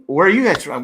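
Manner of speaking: a mild mock Swiss accent asking the question; lightly put-on Swiss tourist asking where they're from; French type German accent. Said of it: "it's like a French type German accent".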